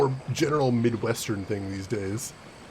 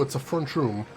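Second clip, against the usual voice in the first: Chicago-accented "front room", run together. Shown as a demonstration. Streamer showing a Chicago classic, Chicago accent. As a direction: say it like a Chicago local. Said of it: "the classics".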